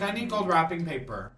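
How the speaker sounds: lightly voiced haughty concubine; mild imperious demand. Recapper voices concubine asking officials for supplies, mildly imperious. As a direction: state the demand with only a touch of entitlement.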